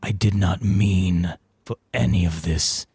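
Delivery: put-on a wise old man pleading to be understood; Veldak's voice. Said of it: "the voice of Veldak".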